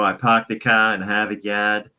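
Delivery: put-on light Boston accent, dropped Rs; imitating a Boston local, lightly. Fan asks about his accent, lightly mimicked Boston accent. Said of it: "they talk like this".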